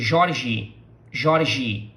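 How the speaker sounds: "Jorge" ending in an "ee" sound; final E as I. Shown as a demonstration. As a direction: close "Jorge" on a Portuguese I, like "zhi". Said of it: "it ends with our, with the sound of our letter I".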